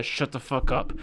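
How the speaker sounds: a mild mock snap in a changed voice; sudden anger. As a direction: cut her off hard after the sweet talk. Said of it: "such a good switch 'cause he's going from".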